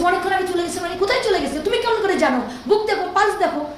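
anguished mother demanding answers; retold furious disbelief. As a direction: throw the words back at him in disbelief. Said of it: "বলছি".

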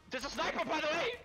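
loud, high warning to teammates; urgent callout. Real, not acted. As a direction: shout the warning over the action. Calls out a sniper to teammates.

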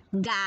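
"Ga-to" split into two beats, ga then to; syllable by syllable. Shown as a demonstration. Teacher has pupils sound out "Ga-to" syllable by syllable. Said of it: "Vamos a pronunciar".

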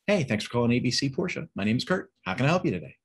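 lifted, smiling greeting rising at the ends; happy phone greeting. Shown as a demonstration. Kurt greeting a caller at the Porsche dealership, happy. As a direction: sound glad the phone rang. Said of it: "the happiness in the tone".

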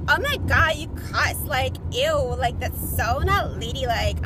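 loud, prissy mock-shocked voice; mock disgusted commenter. Mocking a prim commenter shocked by her cussing. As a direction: imitate a prim viewer clutching pearls. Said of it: "they're like".

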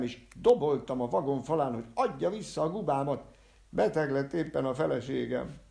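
high, loud, desperate complaint; agitated cheated man. Acted. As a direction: pour out his grievance loudly. Agitated cheated man's story. (magasan, hangosan, kétségbeesetten panaszkodó férfi)

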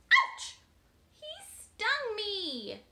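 high, loud mock yelp; pretend pain. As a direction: cry out as if stung. Pretend bee sting.

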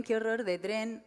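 "qué horror de tren" drawn out slowly, "qué" leaned on; slow, deliberate. Shown as a demonstration. Comic restating the line slowly with weary disgust. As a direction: spell out each word slowly with a falling close.

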